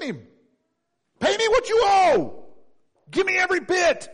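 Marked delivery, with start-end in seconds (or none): 1.2-4.1 much higher, loud, harsh yelling servant; the wicked servant screaming for his money; furious demand. Acted. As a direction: bark it at him as you choke him. Servant choking his fellow servant.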